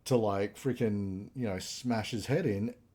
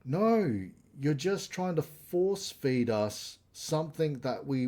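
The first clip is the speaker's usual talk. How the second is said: a touch higher, fed-up pushback; exasperated retort; 4 semitones higher, slower than usual. Retold or imitated. Fans answering the studio, mildly exasperated. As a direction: snap back at them like a tired fan. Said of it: "And it's like".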